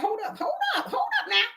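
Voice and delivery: laughing, high hold up. Real, not acted. Preacher laughing as she stops her own story. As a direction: break into a laugh and pull back.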